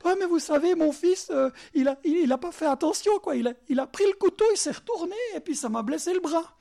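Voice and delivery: lightly acted parent explaining away an injury; hurried, stumbling mock justification to a doctor; excuse-making parent. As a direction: play down the harm, a little animated. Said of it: "Va à l'hôpital pour lui dire".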